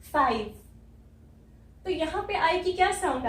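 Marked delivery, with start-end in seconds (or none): 0.0-0.5 slow phonics sounding-out. Shown as a demonstration. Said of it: "बड़ी ई और व".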